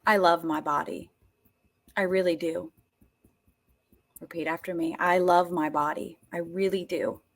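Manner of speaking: low, gentle and sincere; quiet heartfelt self-affirmation; tender affirmation. Shown as a demonstration. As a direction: say it softly, meaning it.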